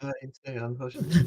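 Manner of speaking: put-on soft, high French accent, rising at the end. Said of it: "that's your French Canadian accent coming through".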